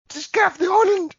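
high, loud exasperated call; exasperated shout. Real, not acted. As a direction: yell the obvious at them.

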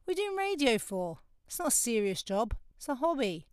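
a hint of grandma dismissing it; disapproving Grenadian grandma. Grenadian grandma dismissing granddaughter's radio work, mildly mock disapproval. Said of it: "I can't do her accent, she's Grenadian".

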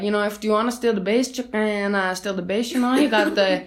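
put-on light Cuban-accented third base coach, a bit fast; a hint of a Cuban accent as a chatty base coach; mild Cuban accent. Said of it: "It's more like maybe Cuban".

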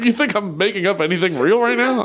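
high-pitched, through laughter; laughing protest. Real, not acted. Comedian admitting it's all made up, laughing and high-pitched. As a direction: protest while cracking up.

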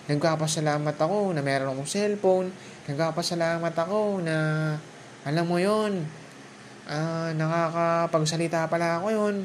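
grateful inner voice. Pretend. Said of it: "I-recognize mo".

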